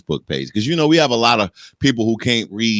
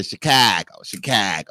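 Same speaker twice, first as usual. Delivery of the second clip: white Chicagoan imitation. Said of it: "they say".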